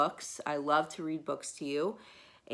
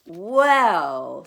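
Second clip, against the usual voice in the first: put-on child Bridget; 11 dB louder than usual. Bridget starts her argument.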